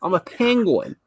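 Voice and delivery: mock Frobisher, bit of a silly voice; penguin Frobisher voice. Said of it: "talking like this".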